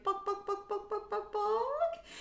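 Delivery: high, soft, chirpy "balk" calls copying the bird; light high bird-like balk imitation; cockatiel calls. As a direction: mimic the cockatiel lightly calling from the other room. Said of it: "I can hear him lightly going".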